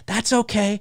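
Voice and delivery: ordinary delivery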